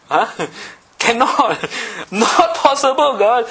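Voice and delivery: high, loud, laughing protest; laughing disbelief. Acted. Abraham laughing at God's promise, high and loud. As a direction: laugh it off as impossible.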